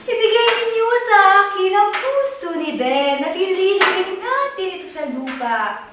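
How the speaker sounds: a hint of a solemn, singsong fairy; lightly voiced fairy. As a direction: pronounce it like a fairy's decree, lightly acted. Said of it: "may dumating na isang diwata". (bahagyang boses ng diwata)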